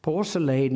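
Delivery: PORCELAIN ending in full "lane"; strong pronunciation. Shown as a demonstration. Lecturer repeats Eliot's form, Porcelain as por-se-lane. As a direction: give Porcelain its full last vowel. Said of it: "a strong pronunciation".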